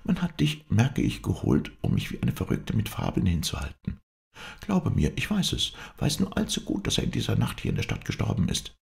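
very high-voiced, insistent wife; wife protesting that she is being deceived; agitated wife.

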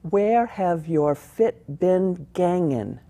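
put-on a light Scots accent, drawn out slowly. Actress demonstrating the play's Scots line, slow light Scots accent. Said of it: "it has to be said very slowly".

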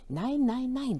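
put-on loud high child's protest; screaming no. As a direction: yell the refusals in panic. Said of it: "schrie ich". (laut schreiend, hoch und verzweifelt)

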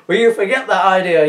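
loud exasperated yell. Acted. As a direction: yell it at her, fed up. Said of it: "yelled Electrode".

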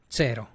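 cero begun with ts, tsero; Italian ts sound. Shown as a demonstration. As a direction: model cero with a t before the s. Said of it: "la vas a pronunciar como T".

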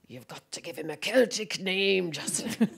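a hint of a friend's urgent advice; lightly voiced actor friend. Actor friend advising new parents on a name, lightly imitated.

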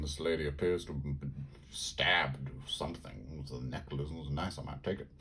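whisper. Real, not acted. Quiet aside about card art.

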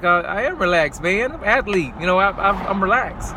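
a mildly hammed-up insistence that you're already relaxed; incredulous protest. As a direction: tell the doctor he's got it wrong. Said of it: "And I'm looking at him like".

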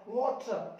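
वाटर as "WAW-chuh", ending on small "uh"; dropped R. Shown as a demonstration. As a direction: lose the R in वाटर, "waw-tuh". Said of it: "आर को गायब कर दो". (वाटर, अंत में छोटा "आ")

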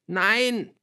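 very high, loud screech; shrieking. A narrator's reading. Girl denies it to her father, shrieking high. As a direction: shriek the denial. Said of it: "kreischte ich einige Oktaven höher".

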